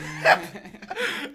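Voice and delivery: loud high laughter; hysterical laugh. Real, not acted. Friends hear the wheatgrass story, loud laughter. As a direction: burst out laughing.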